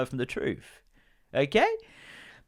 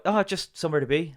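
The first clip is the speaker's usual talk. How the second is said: slightly raised Irish impression; Irish accent; 5 semitones higher than usual. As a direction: play an evasive Irishman, casually. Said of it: "I shouldn't do the accent".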